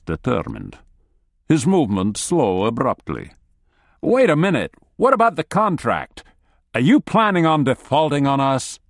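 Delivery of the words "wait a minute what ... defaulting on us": high, loud nervous pleading; alarmed pleading. Acted. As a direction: scramble to bargain in alarm. Analyst pleading with colonel.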